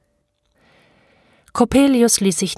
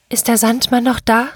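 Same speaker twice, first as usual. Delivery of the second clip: put-on slightly anxious child's question, raised pitch; mild stammered question; 4 semitones higher than usual. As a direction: ask timidly, a touch higher. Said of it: "stammelte ich". (leicht ängstlich gestammelt)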